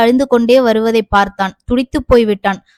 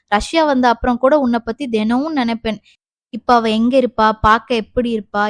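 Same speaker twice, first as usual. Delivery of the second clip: tender reminiscing. Acted. Lover recalls first seeing her.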